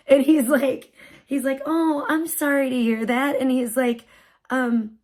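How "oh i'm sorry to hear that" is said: lilting, gentle sympathy; calm, nice voice. Retold or imitated. Parking attendant to stressed mom, kindly sympathy. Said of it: "the calmest, nicest voice".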